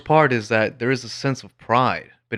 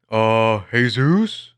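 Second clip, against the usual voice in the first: condescending correction; 4 dB louder, much slower than usual. Retold or imitated. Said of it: "The negative one is more like".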